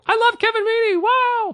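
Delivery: very high, gushing enthusiastic fan voice; high-pitched over-the-moon admirer; Jack Herney impression. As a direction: squeak it out way up high like a starstruck fan. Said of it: "So I was doing an impression of him".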